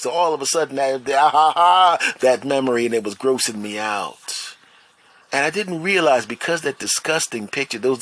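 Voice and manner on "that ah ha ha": mock horrified cry. Acts out sudden horrible memory.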